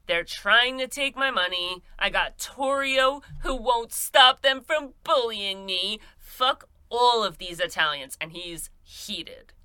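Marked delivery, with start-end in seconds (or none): 0.0-8.2 a lightly voiced, huffy gangster complaint; mock angry rant. O'Banion rants about the Jenners and Torio, a mild mock-angry gripe. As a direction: grumble it like a sulking mobster who feels wronged. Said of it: "He is mad, mad".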